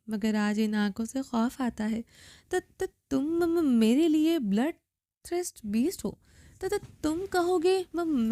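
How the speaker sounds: put-on slow, trembling stutter of a frightened girl; terrified stammer. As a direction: stammer every other word in fear. Terrified girl stammers before captor.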